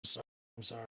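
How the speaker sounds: soft, small sheepish sorry; meek apology. Retold or imitated. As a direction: swallow your pride and mumble it. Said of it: "All I can do is just, like".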